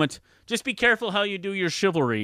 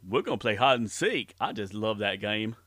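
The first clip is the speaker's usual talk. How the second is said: Forrest Gump voice; 3 semitones lower than usual. Acted. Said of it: "Please welcome Forrest Gump".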